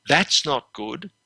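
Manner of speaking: slowly said "That's not good.", soft and serious; grave concern demo. Shown as a demonstration. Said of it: "so you just do it very softly".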